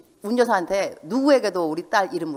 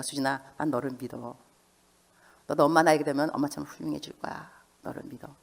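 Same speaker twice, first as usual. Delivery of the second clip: tender reassurance; 4 semitones lower, 5 dB quieter than usual. Retold or imitated. Mother reassuring daughter.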